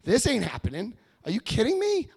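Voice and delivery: whoa, pull back hard, like stopping a horse; alarmed protest. Retold or imitated. Telling his sponsor to slow down, alarmed mock protest. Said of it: "I said".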